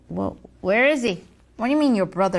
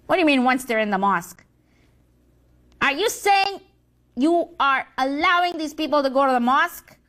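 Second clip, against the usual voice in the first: fast, indignant disbelief; outraged; faster than usual. Acted. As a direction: scold the failing minion. Senior devil outraged.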